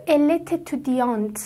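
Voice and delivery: "Elle t'étudiante" slowly, words fully run together; linked liaison. Shown as a demonstration. Teacher showing learners the join, "Elle t'étudiante" fully linked. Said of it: "کاملاً چسبوند به هم".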